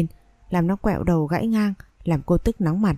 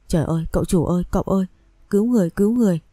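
screaming for help; faster than usual. Acted. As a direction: cry out desperately for someone to come save her. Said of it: "bà Vú liền hét lên".

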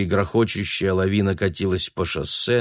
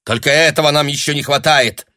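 louder, higher irritated rebuke; exasperated scolding; 6 semitones higher, 5 dB louder than usual. A narrator's reading. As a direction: scold her sharply. Lyudmila scolding after shouting. (раздражённо)

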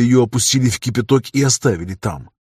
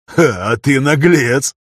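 amused; 3 semitones higher, 4 dB louder, much slower than usual. A narrator's reading. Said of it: "с улыбкой обернулся".

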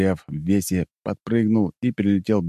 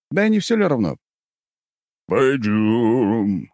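eager; 5 semitones higher than usual. Acted. Hero answers bear.

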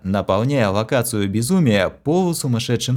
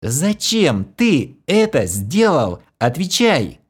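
slow, higher, angry demand; furious demand; 6 semitones higher, slower than usual. A narrator's reading. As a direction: demand an answer in a rage. Enraged Kira accuses him.

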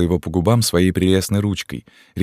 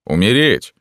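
shocked exclaim; 5 semitones higher, 4 dB louder than usual. A narrator's reading. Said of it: "воскликнул влюблённый капитан".

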